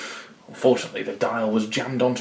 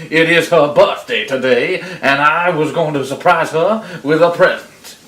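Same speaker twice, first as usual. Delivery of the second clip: stammering excuses with nervous chuckles; embarrassed wolf inventing an alibi as he goes; sheepish wolf. Acted. Caught wolf explaining himself to granny, sheepish and halting.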